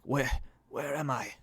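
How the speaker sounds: lightly cracked, confused muttering; a touch of a weak, broken voice. Acted. Man just woken, muttering where he is, cracked voice. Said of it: "cracked and broken".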